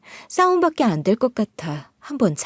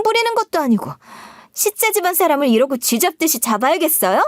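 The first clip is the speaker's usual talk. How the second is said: higher, indignant shameless retort; brazen counterattack; 5 semitones higher than usual. Acted. Sister-in-law brazenly accusing the narrator, high and indignant. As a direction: turn the blame back on her. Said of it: "뻔뻔하게 역으로 나한테 따지고".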